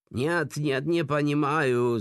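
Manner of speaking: acted panicky protest; terrified wail. A narrator's reading. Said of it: "zavil v šílené hrůze vězeň".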